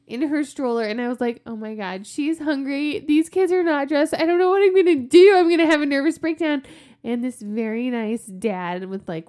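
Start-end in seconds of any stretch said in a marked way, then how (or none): 1.5-6.6 spiral into a panicked meltdown; retelling the hockey-room panic, escalating into a near-yell; frantic panic. Retold or imitated. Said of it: "frantically trying to get these three dressed".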